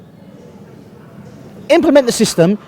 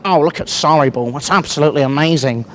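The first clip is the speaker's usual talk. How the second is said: mocking fans; 6 semitones lower than usual. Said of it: "a lot of people are going".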